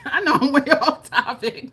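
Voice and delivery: giggling through the words; laughing aside about going off topic. Real, not acted. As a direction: laugh it off, a bit embarrassed. Laughing at own tangent.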